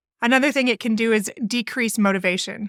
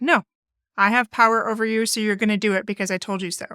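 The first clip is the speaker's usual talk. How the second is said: bossy sassy; faster than usual. Retold or imitated. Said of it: "bossy, sassy kind of like".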